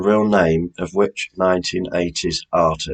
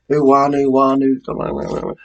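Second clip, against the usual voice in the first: eager calling out; 6 semitones higher, slower than usual. Real, not acted. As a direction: call out to the players, keen to know. Host calling out to players.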